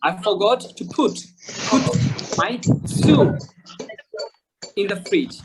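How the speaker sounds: slow, word by word, with "soup" stretched long; drawn-out soup. Shown as a demonstration. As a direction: hold the oo in "soup", pausing between words. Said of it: "এখানে স্যুপটা কিন্তু টান দিব".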